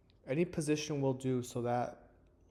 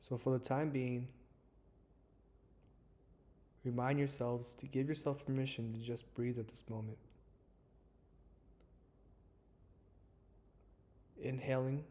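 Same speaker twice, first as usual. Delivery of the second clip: calm, measured meditation guide with long pauses; guided meditation. Acted. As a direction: ease listeners into stillness, leaving space between phrases. Leads a guided breathing meditation.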